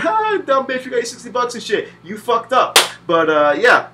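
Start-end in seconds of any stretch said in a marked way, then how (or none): 0.0-2.8 higher, taunting developer voice; mocking developer. The developer laughs at the dying player, lightly voiced taunt. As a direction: jeer at the player. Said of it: "You see the developer".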